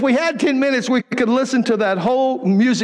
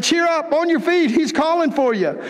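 pitched up, urging him on; eager call; 7 semitones higher than usual. Acted. The crowd urging the blind man up, excited call. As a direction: call him to his feet, higher.

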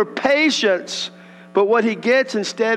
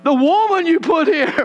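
higher, whiny excuse, hammed up a little; pitched-up Adam shifting the blame; mock whiny Adam; 6 semitones higher, 3 dB louder than usual. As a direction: play Adam passing the blame. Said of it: "Watch this".

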